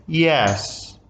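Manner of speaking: "Yes" held fairly level; a drawn-out, even "Yes". Shown as a demonstration. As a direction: say "Yes" without rising or falling. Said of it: "The first one is the level tone".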